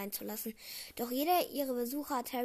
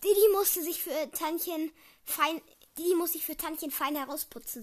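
doting mother; 5 semitones higher, 7 dB louder than usual. A narrator's reading. Aunt Petunia dotes on Dudley.

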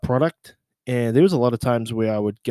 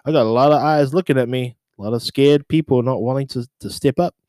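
mic call; 3 semitones higher, 5 dB louder than usual. Retold or imitated. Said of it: "said on the microphone".

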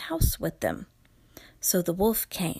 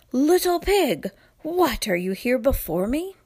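wolf voice; 4 semitones higher, 4 dB louder than usual. Acted. Wolf surprised to find pig.

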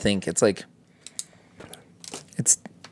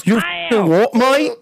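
much higher hammed-up yell; mock angry shout; 12 semitones higher, slower than usual. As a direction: snap at them like a hothead. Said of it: "gives you the knuckles".

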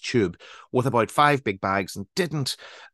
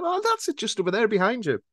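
helpful stranger; 11 semitones higher than usual. Retold or imitated. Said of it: "And she said".

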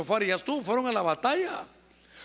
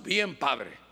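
low-pitched mock reply; congregant's reply; 7 semitones lower than usual. Congregant answers spiritual father, low dutiful reply. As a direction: answer in a lowered voice.

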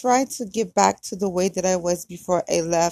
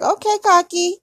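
high, louder sassy jab; sassy put-down; 10 semitones higher, 6 dB louder than usual. Retold or imitated. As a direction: tease him for being so full of himself. Mock-sassy reply to his boast.

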